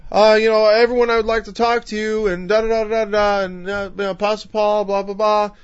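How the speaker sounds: mock a lightly voiced, unimpressive talker; unremarkable speaker. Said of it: "His voice was nothing special".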